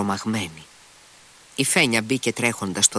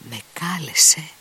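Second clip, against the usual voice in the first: higher, breathless whisper; stunned whisper; 7 semitones higher than usual. A narrator's reading. Grushenka reading the letter, whispering in shock. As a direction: breathe it out in disbelief. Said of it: "φώναξε κατάχλωμη".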